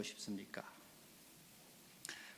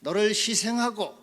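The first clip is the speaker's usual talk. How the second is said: loud, high pulpit cry, building louder; full-force preaching; 8 semitones higher, 11 dB louder than usual. Acted. Preacher demanding self-denying love for Jesus, preaching building to full force. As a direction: drive each phrase harder, climbing to a shout.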